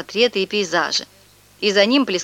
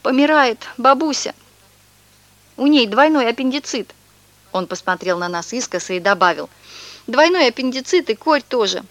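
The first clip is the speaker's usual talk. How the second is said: higher, whining mock sob; fake sobbing; 5 semitones higher than usual. Swindler fakes grief for the boys, hammed-up whimper. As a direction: put on a fake tearful whine. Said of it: "всхлипывать".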